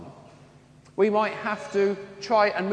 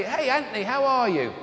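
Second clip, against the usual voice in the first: higher-pitched mock hail to an old friend; retold friendly greeting; 4 semitones higher than usual. Old schoolmate spotting Anthony in the street, imitated greeting.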